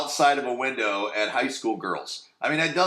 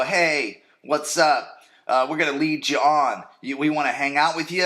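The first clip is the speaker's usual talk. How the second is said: put-on girls' greeting; 4 semitones higher, 4 dB louder than usual. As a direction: play the cute girls calling over to the guys. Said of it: "they go".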